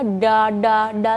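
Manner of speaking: "da" with a curled-back tongue as in India or Bangladesh; Indian-style da. Shown as a demonstration. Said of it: "itu salah".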